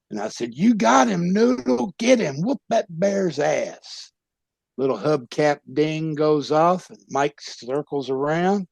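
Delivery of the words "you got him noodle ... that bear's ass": cheering him on. Retold or imitated. Friend in the corner cheering Noodle on, higher yell. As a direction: egg your buddy on.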